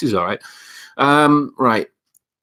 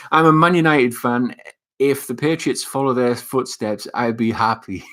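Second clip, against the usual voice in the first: emphatic reread; 2 semitones higher than usual. Real, not acted. Rereads comment after "It's Boogie.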